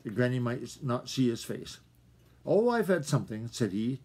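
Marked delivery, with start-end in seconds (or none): 2.5-3.5 higher, breezy brush-off; lightly. Acted. Hungry fox hiding his hunger from Granny, forced light tone. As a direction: make it sound like nothing. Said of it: "trying to speak lightly".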